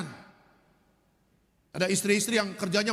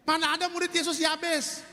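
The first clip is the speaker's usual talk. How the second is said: emphatic correction; 5 semitones higher than usual. Real, not acted. Preacher corrects wrong answer.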